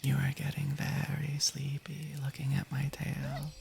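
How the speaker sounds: slow whispered hypnotist voice; mock hypnotist. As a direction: lull them to sleep with a slow whisper. Hypnotizing chat with her tail.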